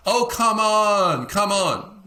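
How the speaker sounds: high, slow, drawn-out coaxing; pushy coaxing. Acted. Friend pressing someone to come along, high and coaxing. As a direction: whine it out to wear them down.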